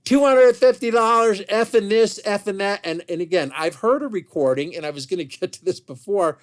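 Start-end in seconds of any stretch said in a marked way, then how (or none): 0.0-2.8 imitated browbeating, louder and higher at the start; mock a wife hounding him over money. Wife browbeats husband over a lost bet, mock hectoring. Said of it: "she will browbeat him till no end".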